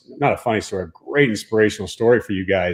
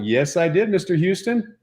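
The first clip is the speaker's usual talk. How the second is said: put-on kid's answer; 7 semitones higher than usual. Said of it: "I'm like".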